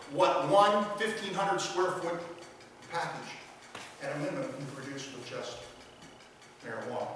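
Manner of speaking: running out of air mid-sentence; out of breath. Real, not acted. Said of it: "'cause I'm running out of breath".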